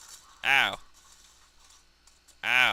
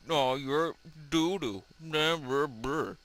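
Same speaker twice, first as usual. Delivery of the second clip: 1 mock software voice; 5 semitones higher, slower than usual. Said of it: "Bandicam up here is like".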